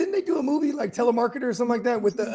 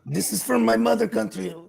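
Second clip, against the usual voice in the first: put-on joking Greek cheese-seller accent; lightly hammed-up Greek villager; mock Greek accent. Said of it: "they were like Greeks to me".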